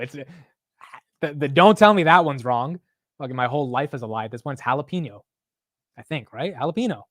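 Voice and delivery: usual speaking voice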